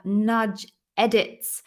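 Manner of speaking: slow, each syllable spelled out; careful over a tricky name. Real, not acted. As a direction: feel your way through the name slowly. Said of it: "really hard to get my mouth around those two words".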